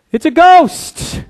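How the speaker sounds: high, slow, alarmed exclaim; imitating scared disciples; frightened cry. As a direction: gasp it out in fright. Disciples see ghost on water.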